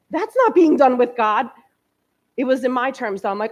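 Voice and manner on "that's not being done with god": laughing and a bit louder; catching herself out with a laugh. Real, not acted. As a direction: chuckle through the self-mockery. Laughs at her own contradiction.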